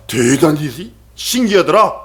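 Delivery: slow, drawn-out marveling; mock wonder at an unhurried pace; acted amazement. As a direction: imitate an impressed onlooker, stretching the words. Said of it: "라고 세상 사람 얘기하는데".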